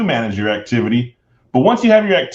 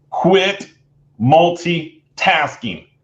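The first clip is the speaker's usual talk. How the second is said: slowed-down delivery; 3 semitones higher than usual. Speaker giving advice on working smarter, said slowly. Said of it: "Let me say it slowly".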